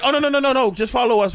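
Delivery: restaurant host. Retold or imitated. Imitating staff steering diners away.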